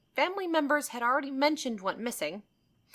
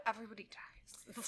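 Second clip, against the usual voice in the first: deadpan quote; 16 dB quieter than usual. Retold or imitated. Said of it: "I'm like".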